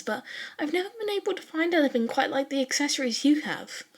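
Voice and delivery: a keen classmate who has waited ages to ask; eager curious young woman. Acted. Yao Momo voiced by narrator.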